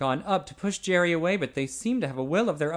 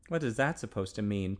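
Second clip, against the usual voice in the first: hurt and sullen; 4 semitones lower than usual. Acted. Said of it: "Ted demanded, hurt and sullen".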